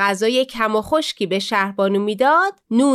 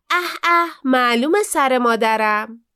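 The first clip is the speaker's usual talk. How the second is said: disgusted scoff. Acted. Daughter scorns the div's hair.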